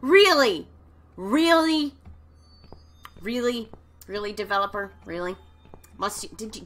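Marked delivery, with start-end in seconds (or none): 0.0-5.4 rattled, exasperated yelling; indignant shout. Real, not acted. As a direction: yell REALLY in protest after a scare. Protests at developer after jump scare.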